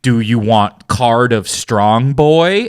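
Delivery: mock game prompt. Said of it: "Fallout's is like".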